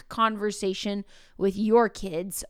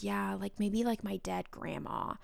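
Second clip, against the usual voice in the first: put-on deadpan kid; 10 dB quieter than usual. Kid adds grim joke.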